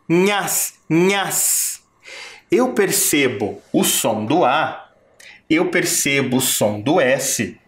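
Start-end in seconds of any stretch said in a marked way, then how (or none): 0.1-1.8 nhas isolated and repeated; syllable sounded out. Shown as a demonstration. Teacher showing pupils the sounds of a syllable. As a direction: say nhas alone, twice. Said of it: "E quando eu falo o nha".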